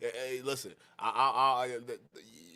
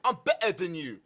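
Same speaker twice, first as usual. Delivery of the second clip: imitating an arrogant opponent; mock arrogance. Host mimicking the caller's boast to expose him, mock arrogant. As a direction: parrot his boast, lightly mocking the arrogance. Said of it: "look at the arrogance".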